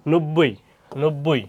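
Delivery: নব্বই said slowly, the ব doubled as ন-ব্-বই; drawn-out নব্বই with a doubled ব; slow spelling demo. Shown as a demonstration. Teacher to students showing how নব্বই sounds, slow and doubled. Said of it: "যেমন".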